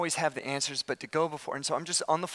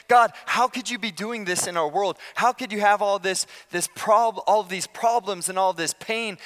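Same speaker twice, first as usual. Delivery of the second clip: louder, pleading challenge to God; impassioned complaint; 3 semitones higher, 5 dB louder than usual. Acted. Prophet bringing God his complaint about the world, impassioned. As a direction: press the questions as a mild protest. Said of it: "It's Habakkuk's complaint".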